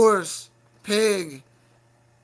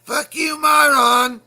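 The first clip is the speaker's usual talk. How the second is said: loud, higher defiant yell; shouted insult; 5 semitones higher, 8 dB louder, slower than usual. Real, not acted. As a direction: bark it at him with full force. Insulting another host.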